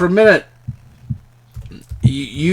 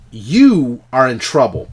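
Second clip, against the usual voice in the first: louder stern warning; stern rebuke; stern scolding; 2 semitones higher, 6 dB louder than usual. Acted. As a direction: point at her and scold. Dorian scolds, pointing at her.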